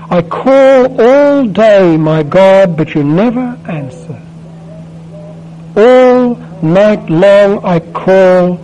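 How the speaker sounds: slow, pleading psalm read aloud; prayerful psalm reading. Acted. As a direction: voice Jesus' cry from the cross, drawn out and rising. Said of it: "Let me read it for you".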